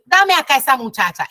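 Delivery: stern command to the daughter-in-law. Retold or imitated. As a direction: take the baby with a no-nonsense voice. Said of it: "pero con el tono de voz".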